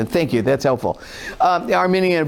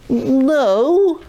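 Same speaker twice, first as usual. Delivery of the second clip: firm no; 7 semitones higher than usual. Real, not acted. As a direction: cut it off flat. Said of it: "emphatic rejection of weak reply".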